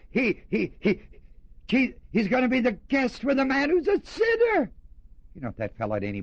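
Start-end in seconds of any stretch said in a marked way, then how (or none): 0.1-4.7 stuttering, higher scandalized grumble; mock scandalized murmur. Murmuring crowd scandalized at Jesus, sputtering. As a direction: sputter it out in mild mock outrage. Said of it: "they said".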